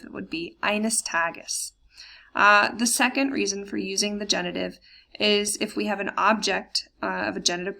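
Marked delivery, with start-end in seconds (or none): 0.6-1.7 slow, careful German; slow model reading. Shown as a demonstration. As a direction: spell out eines Tages slowly for learners. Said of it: "if you wanted to say someday".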